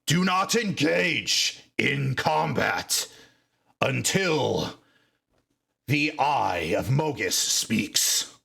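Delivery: measured seer's command, each word slow; slow, solemn order. Acted. Orc seer to the fighters, slow solemn order. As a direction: hold them back with calm authority. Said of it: "he's gonna say".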